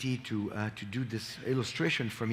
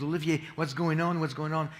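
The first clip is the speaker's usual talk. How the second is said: higher-pitched, mildly panicked quote; retold panic; 4 semitones higher than usual. Mother phones her son about the attack, mildly panicked. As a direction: imitate a worried caller, pitch lifted. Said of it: "panicking on the phone".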